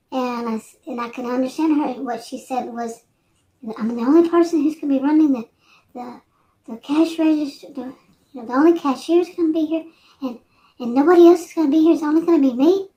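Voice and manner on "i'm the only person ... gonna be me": put-on frightened rushed girl. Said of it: "she sounded terrified".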